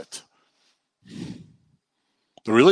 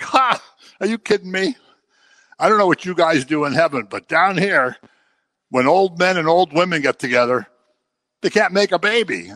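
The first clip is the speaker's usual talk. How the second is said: higher, scoffing disbelief, a touch hammed; scoffing Zechariah; 4 semitones higher than usual. Zechariah scoffing at the angel Gabriel, mock disbelief. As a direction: laugh off the angel's news like a sceptical old man.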